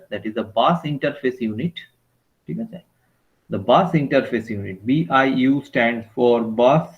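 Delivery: spelled out slowly for note-taking; slow dictation. Shown as a demonstration. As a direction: dictate each word slowly. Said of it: "সবাই খাতায় লেখো কিন্তু".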